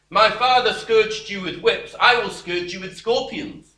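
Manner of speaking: loud, harsh royal threat; harsh king. Acted. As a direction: snarl it down at the people like an arrogant king. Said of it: "answered the people harshly".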